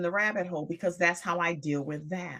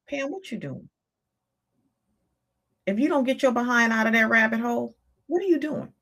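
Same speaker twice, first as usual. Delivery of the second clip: scolding self-talk; 2 semitones higher, 4 dB louder than usual. Retold or imitated. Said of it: "my reality kicked in and was like".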